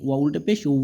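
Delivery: long rounded "উ" with a light w; light w glide. Shown as a demonstration. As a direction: round the lips, drawing out "উ" without a hard b. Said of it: "এরকম". (হালকা বা-এর আভাসে গোল, টানা "উ")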